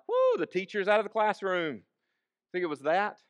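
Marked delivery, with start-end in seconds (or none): 0.1-1.8 mock cheer. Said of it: "You think any of them were like".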